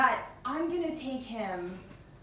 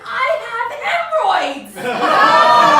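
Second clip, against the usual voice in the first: much louder, exasperated outburst; blurted shout; 9 semitones higher, 15 dB louder, slower than usual. Retold or imitated. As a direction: burst out the confession. Boyfriend finally blurts it out.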